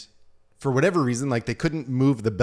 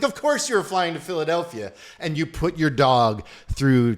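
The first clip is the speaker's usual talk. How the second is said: higher, louder mock exasperation; exasperated; 6 semitones higher, 5 dB louder than usual. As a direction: exclaim it in mild disbelief. Exasperated reaction to the dog owners.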